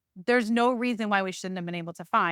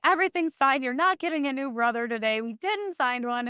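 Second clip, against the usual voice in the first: pet talk; 4 semitones higher than usual. Retold or imitated. Talking to her cat Eddie.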